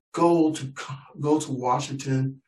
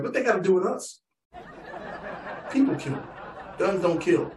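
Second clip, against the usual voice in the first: higher, indignant cowboy voice; John Wayne gun owners; 5 semitones higher than usual. Retold or imitated. Gun owners brushing off the shootings, indignant. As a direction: scoff like a gun-proud cowboy. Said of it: "all the John Waynes are like".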